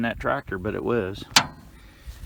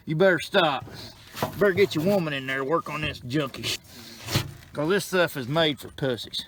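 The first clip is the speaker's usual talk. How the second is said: ranting. Real, not acted. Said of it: "And I'm ranting".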